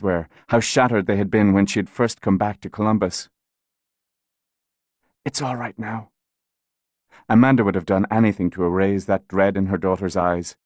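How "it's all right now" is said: gently hushed, much softer; softly soothing a frightened mother. A narrator's reading. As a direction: whisper it to calm her. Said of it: "her voice was soothing when she spoke".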